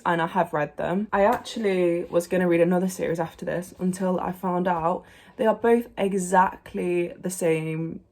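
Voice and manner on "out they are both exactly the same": words broken by coughing; coughing through the line; coughing fit. Real, not acted. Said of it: "little coughing fit there".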